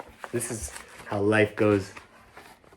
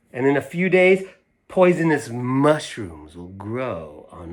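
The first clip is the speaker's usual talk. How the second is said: voicing a sulky girl; 2 semitones higher, slower than usual. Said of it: "she says".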